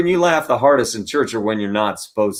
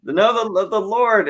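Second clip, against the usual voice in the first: correcting; 12 semitones higher, slower than usual. Retold or imitated. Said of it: "they're like".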